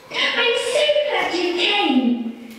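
high, slow purring cat voice; cat purring with delight at seeing her owner. Acted. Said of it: "purred the cat".

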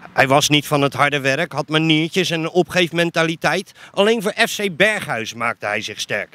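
measured recital, phrases often dropping in pitch at the end; spoken-word recitation. Acted. Supporter gives a premiere of his piece on Berghuis, spoken-word recitation. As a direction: recite it like a prepared poem.

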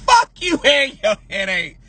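said while breaking up; laughing. Acted. Streamer laughing at her own joke, giggling. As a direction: crack up through the line.

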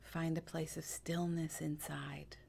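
calm, hushed meditation voice; guided meditation. Acted. Guide softening listeners into stillness, calm meditation voice. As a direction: lead them gently into stillness, leaving long pauses.

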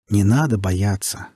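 slow, gentle, lightly rustling voice; soft velvety rustle. Acted. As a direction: coax them calmly and slowly. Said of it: "ласково прошелестел бархатистый голос".

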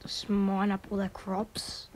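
ordinary delivery

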